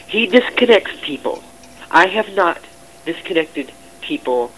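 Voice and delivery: high, loud protest; indignant denial. Real, not acted. Staff member denying they disconnected anyone, indignant. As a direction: throw the accusation off, loudly. Denies blame, points at another.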